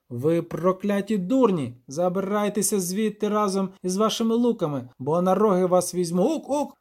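high, bleating little devil, indignant; a furious goat-man ordering intruders off his land. Acted. Devil Torkve's lines, not named.

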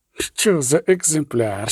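rapture. Acted. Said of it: "у безмежному захваті".

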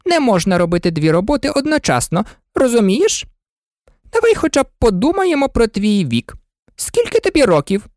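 high, fluttering queen pleading; fussy queen. A narrator's reading. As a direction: coax her high and anxiously out of tears. Queen voice in story.

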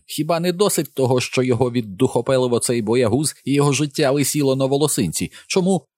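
high voice of an indignant mother; mother protesting to the officer; outraged mother. A narrator's reading. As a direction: pile on the outrage.

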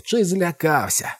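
high, slow jeering cry; mocking shout. A narrator's reading. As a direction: draw out the taunt. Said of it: "кричала мисливиця".

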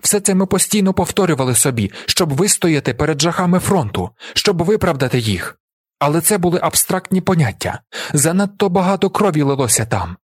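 high, urgent appeal to jurors; impassioned shouted plea. A narrator's reading. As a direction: plead for a comrade with conviction. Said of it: "кричу я".

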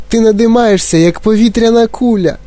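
very high alarmed voice; squealing. A narrator's reading. Mother watches Violet balloon, squealing. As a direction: squeal it in disbelief. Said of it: "пропищала пані Борегар".

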